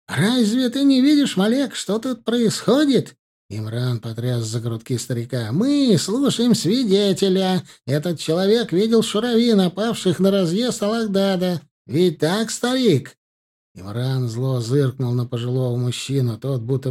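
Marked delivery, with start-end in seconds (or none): 0.1-3.2 high, loud and furious; angry shout. Acted. Imran shaking the old shepherd, furious shout. 5.5-13.2 menacing pressure. Acted. Imran glaring at the frightened witness, menacing high voice.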